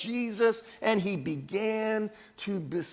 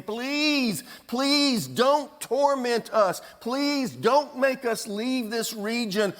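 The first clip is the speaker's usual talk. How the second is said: begging demons; 3 semitones higher than usual. Acted. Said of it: "They were begging with him".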